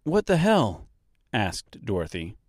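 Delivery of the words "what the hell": shocked outburst. A narrator's reading. Dorothy shocked, higher far voice.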